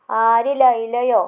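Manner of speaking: loud, slow, drawn-out astonished question; surprised question. Acted. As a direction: gasp out the name in disbelief. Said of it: "ആശ്ചര്യത്തോടെ ചോദിച്ചു". (ആശ്ചര്യത്തോടെ ഉറക്കെ പതുക്കെ ചോദിക്കുന്നു)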